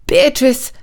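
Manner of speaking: gentle call, a little high; soft call. A narrator's reading. Prince at the pond coaxing Beatrice, calling softly. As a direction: coax her out by name. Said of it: "called out softly".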